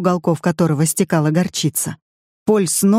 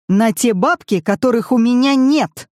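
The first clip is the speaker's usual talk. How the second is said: wailing cry; 6 semitones higher than usual. A narrator's reading. Paul wails to the family about money he lacks. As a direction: howl it out in despair. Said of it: "возопил Поль".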